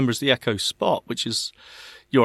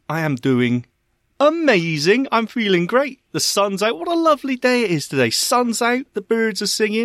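over-the-top cheerful; 6 semitones higher than usual. Acted. Exaggerated cheerful answer.

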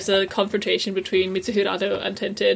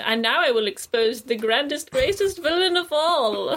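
grand villain reveal, rising; megalomaniac rant; 4 semitones higher than usual. Retold or imitated. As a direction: build to a hammy grand reveal. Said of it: "like, a Bond villain speech".

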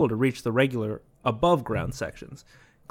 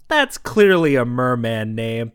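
a strict dragon lady catching a fib; stern headmistress; 7 dB louder than usual. Retold or imitated. Host retells the headmistress scolding a student, stern. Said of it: "she was like".

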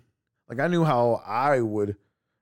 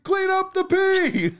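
high, slow, louder incredulous order; mock exasperated; 7 dB louder, slower than usual. Mom retells telling daughter what to do, slow and high. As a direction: spell it out like it's obvious. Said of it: "And I'm like".

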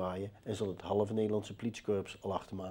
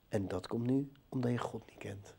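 ghostly whisper, voiceless; 5 dB quieter than usual. Retold or imitated. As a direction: breathe it like a voice from beyond. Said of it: "En hij zegt van". (gefluisterd als een stem van de andere kant)

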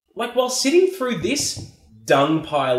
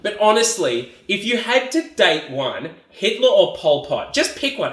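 mock reasonable plea; 3 semitones higher, slower than usual. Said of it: "this is like saying".

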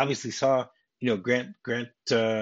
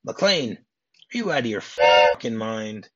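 louder, slow indignant outburst; mock angry outburst; 5 dB louder, slower than usual. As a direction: act out an exasperated boss losing it. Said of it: "Lorenzo runs out of his office and goes".

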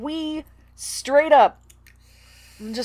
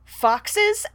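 echoing question; 10 semitones higher than usual. Acted. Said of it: "echoed Clooney".

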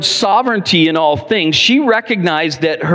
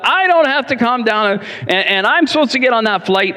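mock angry retort; 6 semitones higher than usual. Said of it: "He's angry".

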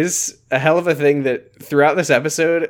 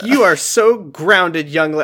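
slow drawn-out mock scolding; stern mom scolding; 4 semitones higher, 3 dB louder, much slower than usual. Mom scolding daughter for selling the piano, slow and stern. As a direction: drag out the grounding like a fake-stern mom. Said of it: "I don't know why she said it like that".

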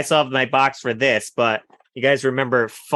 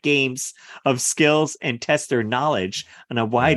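voiceover announcer. Acted. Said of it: "Somebody hire this man to do voiceover work".

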